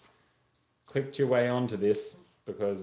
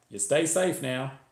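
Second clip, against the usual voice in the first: higher-pitched Texan stranger offering help; friendly passing driver; 6 semitones higher, 4 dB louder than usual. Acted. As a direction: ask helpfully, voice lifting high. Friendly driver says goodbye.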